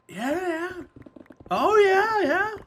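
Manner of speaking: high-pitched mock-interested yeahs; humoring agreement. Listener humoring a rambler, high put-on agreement. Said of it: "you just go like".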